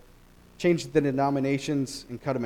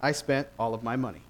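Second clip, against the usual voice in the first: solemn will reading; 4 dB louder than usual. Retold or imitated. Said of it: "As it's read".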